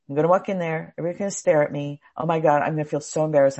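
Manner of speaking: rushed, worried self-talk; anxious inner voice. Acted. Acting out anxious thoughts about walking in, rushed. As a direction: race through it like spiraling worries.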